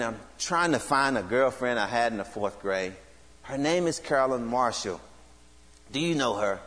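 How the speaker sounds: low and quiet, deflated and half-hearted; unenthusiastic. Retold or imitated. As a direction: say it like you've given up hope. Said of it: "I was not as enthusiastic this time".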